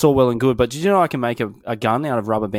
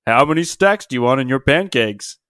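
dad voice; 4 dB louder, slower than usual. Pretend. Voicing the dad in a story.

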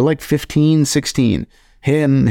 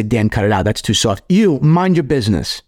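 mock stern dad. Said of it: "I wouldn't say".

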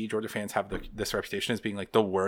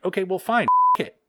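mock fury; 6 semitones higher, 4 dB louder than usual. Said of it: "I'm like".

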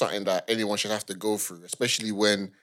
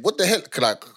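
1 anxious questioning; 4 semitones higher than usual. Retold or imitated. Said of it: "you're gonna be thinking".

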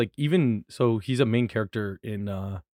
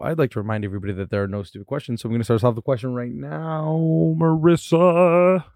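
bouncy, lilting podcast host intro; sing-songy; 2 semitones higher than usual. Acted. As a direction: sing the welcome like a radio host. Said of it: "such a sing-songy voice".

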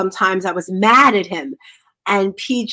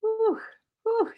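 soft whew; 11 semitones higher, 8 dB quieter than usual. Real, not acted. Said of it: "Did you guys feel that energy?".

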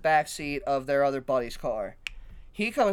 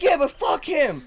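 higher, louder dismissive jab; mock drunk dismissal; 11 semitones higher, 7 dB louder than usual. Drunk woman brushing off her friend, mock scorn. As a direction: toss it off like she doesn't care. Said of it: "and she's like".

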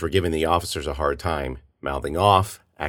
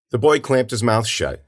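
ordinary delivery

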